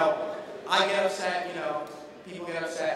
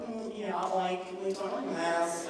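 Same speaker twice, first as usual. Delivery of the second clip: put-on Valley girl voice; 6 dB quieter than usual. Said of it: "people that talk like".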